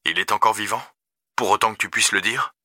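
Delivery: lightly voiced concerned dad; father on phone. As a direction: question a son with restrained concern. Father questions son by phone.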